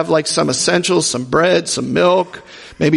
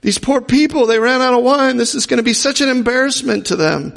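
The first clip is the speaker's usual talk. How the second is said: higher, worried motherly fuss; fretting Jewish mother; 6 semitones higher than usual. Retold or imitated. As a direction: voice a mother fretting over the poor hosts. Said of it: "She's a Jewish mother. She's like".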